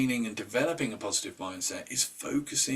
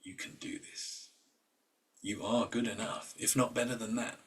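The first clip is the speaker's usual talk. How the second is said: encouraging voice; 4 dB quieter than usual. Retold or imitated. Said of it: "imagine a voice of somebody".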